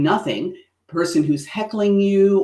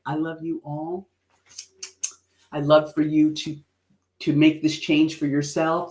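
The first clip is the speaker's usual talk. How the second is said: loving. Shown as a demonstration. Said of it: "with an open heart and lovingly".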